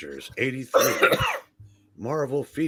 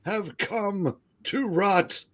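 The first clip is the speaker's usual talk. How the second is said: measured, portentous storytelling; grand comic narration; 8 semitones higher than usual. Acted. Telling of heroes come to Rutland, grandly theatrical. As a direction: declaim it in halting, weighty phrases.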